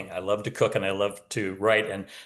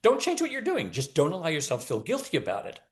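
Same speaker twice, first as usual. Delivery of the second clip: retold teacher advice; 6 semitones higher than usual. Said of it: "I said".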